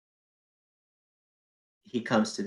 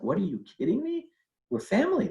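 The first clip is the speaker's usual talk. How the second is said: mother brushing aside his fear, much higher; incredulous outburst; 13 semitones higher, faster than usual. Retold or imitated. Mother tells the nervous cousin on the phone, high incredulous cry. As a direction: voice leaps high in disbelief.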